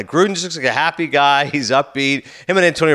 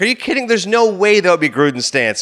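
incredulous; 3 semitones higher than usual. Retold or imitated. Host scoffing at Gruden's supportive stance on Brown, incredulous. Quoting own disbelieving reaction to Gruden.

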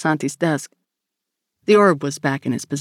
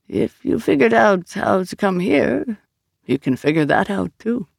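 higher, lilting character voice with lingering words; Vito, patient explainer; 5 semitones higher than usual. Acted. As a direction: explain slowly, searching for the phrase.

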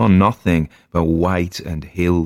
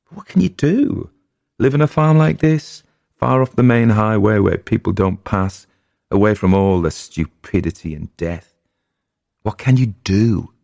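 loud, high, pleading rising questions; loud despairing husband; anguished outcry; 3 semitones higher, 4 dB louder than usual. Acted. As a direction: cry out helplessly at the world.

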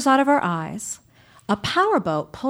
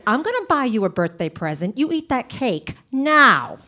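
like a death threat. Retold or imitated. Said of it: "she'd say them like they were death threats".

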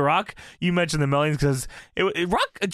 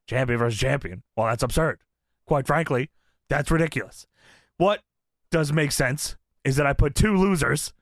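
Rock voice. Retold or imitated. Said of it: "I also wrote down The Rock in The Rock voice".

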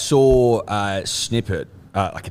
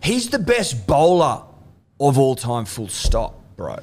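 mock indignant; 3 semitones higher, slower than usual. Indignant rant at Tendulkar.

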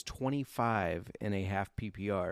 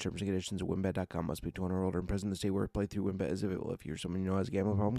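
rapid fine print, quieter; fast legal disclaimer; 3 semitones lower, 5 dB quieter, much faster than usual. Acted. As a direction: rattle off the legal terms fast.

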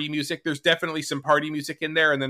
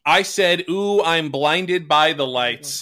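slow recitation; slower than usual. Shown as a demonstration. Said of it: "the original lyrics being".

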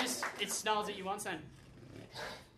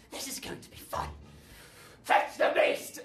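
villain voice; 7 semitones higher, 4 dB louder than usual. Acted. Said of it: "He goes".

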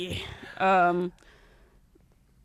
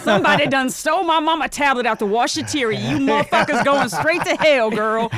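louder sassy Black woman voice; 5 semitones higher, 5 dB louder than usual. Retold or imitated. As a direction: go off like an angry Facebook post. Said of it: "I'll do my voice and read".

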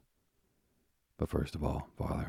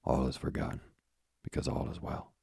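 smiling. Acted. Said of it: "the old man said with a smile".

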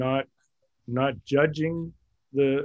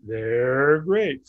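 lightly voiced cartoon tiger cheer; stretched, rising slogan of a cartoon tiger; Tony the Tiger; 4 dB louder than usual. Shown as a demonstration. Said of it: "I did Tony the Tiger".

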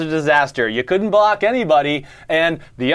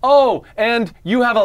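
shrill screeching bird woman; 6 semitones higher than usual. Acted. Hollering New Orleans taunt.

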